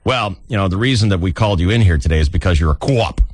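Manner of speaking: a light put-on Boston accent for the police chief; lightly voiced Boston police boss. Police chief briefing the officer, in a light Boston accent. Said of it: "And he's like".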